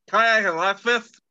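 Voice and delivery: numbed, slow question; numb mouth. Real, not acted. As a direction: talk through a numbed mouth. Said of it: "can't feel my tongue".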